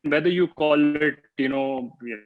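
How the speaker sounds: breaking up. Real, not acted. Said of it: "sorry, you're breaking up again".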